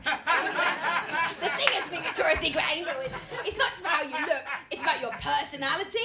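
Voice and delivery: breathy lightly mocking model; a hint of a vapid model; airy model voice. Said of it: "she was like".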